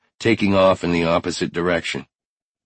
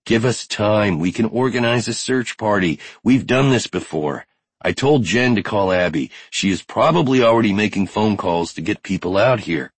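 higher, insistent pleading; urgent persuasion; 3 semitones higher than usual. Acted. Finn begs Brody to await searchers, urgent persuasion. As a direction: reason with him urgently.

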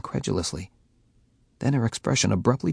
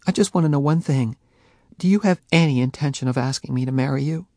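sharply; 6 semitones higher, 4 dB louder, faster than usual. A narrator's reading. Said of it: "looked at me sharply".

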